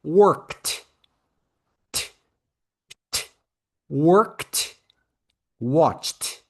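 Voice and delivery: "Worked" and "Watched" ending on a crisp t; "Worked", one syllable, d spelled but t sounded; final T sound. Shown as a demonstration. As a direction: isolate the t, then attach it to "worked". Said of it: "lembra do T?".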